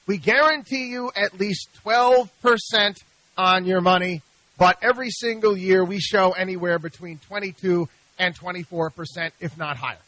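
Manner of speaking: salesman's pitch. Retold or imitated. Host quoting Cayman salesman's pitch to investors, loud and slick. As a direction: sell the guarantee like a smooth promoter.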